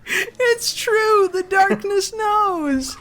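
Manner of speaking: high, very slow eerie voice; creepy Taken voice. Pretend. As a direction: wail it like a ghost.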